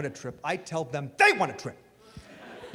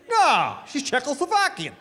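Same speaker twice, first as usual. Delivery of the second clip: higher, louder sarcastic snap; sarcastic retort; 8 semitones higher, 4 dB louder than usual. Retold or imitated. Brad to the nosy people, sarcastic retort. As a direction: answer dripping with sarcasm.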